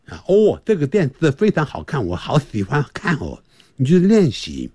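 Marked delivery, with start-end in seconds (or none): 0.6-3.4 lisping with tongue out; tongue sticking out. Shown as a demonstration. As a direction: speak with the tongue between teeth. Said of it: "这个舌头吐出来".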